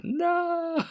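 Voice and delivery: long, very high mock-wail; imitated anguished shout. Boy watching Gandalf fall, drawn-out high mock shout. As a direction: draw out a high-pitched cry of protest. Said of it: "wanted to shout".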